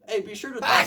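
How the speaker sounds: loud, high announcer call; announcer shout. Retold or imitated. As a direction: bark it like an announcer. Announcer shouting instructions at contestants.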